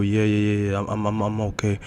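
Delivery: stammering reassurance; hesitant, repeating himself to insist; nervous stutter. Acted. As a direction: stumble over repeated words. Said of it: "as he stuttered on his words".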